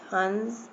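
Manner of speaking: हंस with the vowel hummed through the nose; nasal sound. Shown as a demonstration. Teacher demonstrates the nasal dot, हंस through the nose. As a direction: let हंस ring in the nose. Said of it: "नाक से निकल रही है ना आवाज़".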